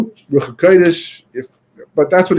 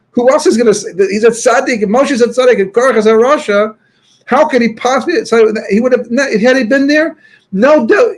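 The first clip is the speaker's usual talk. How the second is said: indignant outrage; 7 semitones higher than usual. Retold or imitated. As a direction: play the scandalised crowd, pitched way up. Outraged Chassidim retold.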